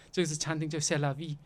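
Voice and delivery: ordinary delivery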